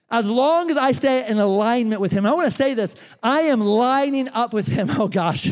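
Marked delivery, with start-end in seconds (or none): 4.9-5.5 real laughter breaking out; laughing. Real, not acted. Pastor laughing as he chases Josh, real laughter. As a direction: laugh it off, then a low Oh gosh.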